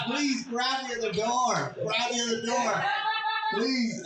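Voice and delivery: high, drawn-out retold plea; mock desperate pleading. Begging bystanders to block the door, mock desperate.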